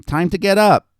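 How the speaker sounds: high sing-song wake-up call; singsong it loudly like a little girl. A narrator's reading. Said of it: "Annie sing-songed at him".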